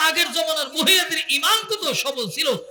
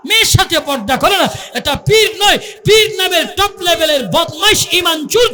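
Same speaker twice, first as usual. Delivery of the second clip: fiery sermon shout, raised pitch; fiery preaching; 3 semitones higher than usual. Real, not acted. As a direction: thunder at the congregation. Preacher at full force.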